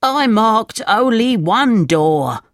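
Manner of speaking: high, slow, plaintive insistence; unhappy. A narrator's reading. Unhappy thief defending himself to the leader, plaintive. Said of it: "said the unhappy thief".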